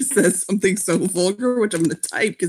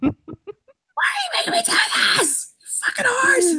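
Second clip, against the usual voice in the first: high laughing outcry, half shouted and crying with laughter; laughing mock outcry. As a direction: wail it while cracking up. Laughing mock outburst as Kier.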